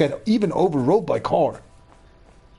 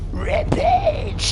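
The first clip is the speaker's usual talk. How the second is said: high, shrill-free squeal of a shout; gleeful gamer shout; excited yell. Real, not acted. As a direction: scream it as you smash through. Gamer shouts while crashing.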